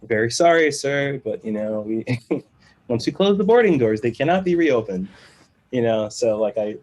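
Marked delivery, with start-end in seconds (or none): 0.0-5.1 mock apologetic. Airline staff refusing a late passenger, mock apologetic. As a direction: imitate an apologetic but unbending agent.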